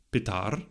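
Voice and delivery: "pitar" as an approximate Sanskrit root, stressed on the second syllable; Sanskrit pronunciation. Shown as a demonstration. Lecturer attempting Sanskrit for father, "pitar" stressed on the last syllable. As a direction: say "pitar" carefully with the weight on "tar". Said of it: "excuse my Sanskrit pronunciation".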